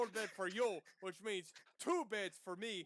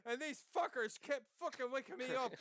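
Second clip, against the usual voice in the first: annoyed shout; 3 semitones higher than usual. Acted. Character defends herself loudly.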